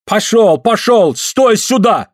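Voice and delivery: high, exasperated commands; irritated orders. A narrator's reading. Suль shoves Andrei back to the bellows, irritated orders. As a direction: order him about in a high voice. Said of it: "раздражённо".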